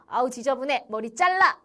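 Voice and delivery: lightly voiced strict school discipline teacher; mock scolding order. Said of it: "학생부 선생님처럼".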